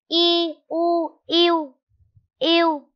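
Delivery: high, loud, drawn-out spelling chant; spelling out slowly. Shown as a demonstration. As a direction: chant each sound for the class to copy. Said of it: "Cô đánh vần và đọc trơn là". (đánh vần to và kéo dài)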